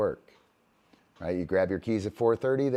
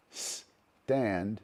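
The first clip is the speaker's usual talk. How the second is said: drawn-out stand. Shown as a demonstration. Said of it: "the Sesame Street thing".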